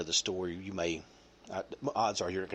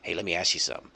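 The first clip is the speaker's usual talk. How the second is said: a loud, drawn-out in-law; mock in-law voice; in-law's drawl; 5 dB louder, faster than usual. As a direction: imitate the city in-laws' way of talking. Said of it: "they gotta talk like this".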